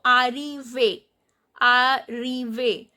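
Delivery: "arrive" slowly as "ah-ree-vay"; accented final E. Shown as a demonstration. Teacher shows students the accented E, slow "ah-ree-vay" for "arrive". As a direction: sound the end of "arrive" as a clear "ay". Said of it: "pronunciation of E will be A".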